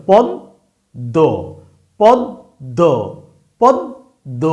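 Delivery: পদ্ম with a held double দ, first take very slow; slow classroom demo of পদ্ম; doubled d. Shown as a demonstration. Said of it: "দ কয়বার উচ্চারণ হয়েছে".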